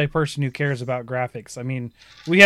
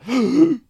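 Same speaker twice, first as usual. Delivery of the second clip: shocked gasp; 9 semitones higher, 4 dB louder than usual. Retold or imitated. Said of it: "cool demeanor goes to".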